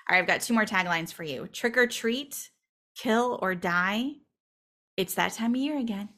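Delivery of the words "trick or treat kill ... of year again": horror trailer voice. Shown as a demonstration. Reading dramatic movie taglines.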